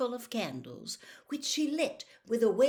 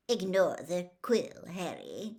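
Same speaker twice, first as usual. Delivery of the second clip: firmly; 3 semitones lower, 3 dB louder than usual. A narrator's reading. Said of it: "said Rita Skeeter firmly".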